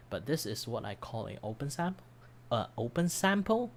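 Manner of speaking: hoarse, voice giving out; strained, worn-out voice; losing voice. Real, not acted. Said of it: "Sorry, I'm, I'm losing my voice".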